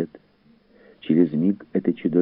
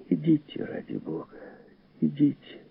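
high-pitched plea, dropping to breath between; urgent plea; 12 semitones higher, 5 dB quieter than usual. Acted. Host begging the fugitive to flee, urgent plea. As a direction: urge him away, high and hushed.

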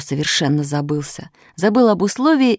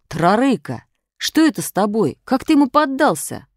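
higher, rising in amazement; baffled schoolmate's question; astonished questioning; 7 semitones higher than usual. A narrator's reading. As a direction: ask in disbelief what happened. Classmates crowd round beaten boy.

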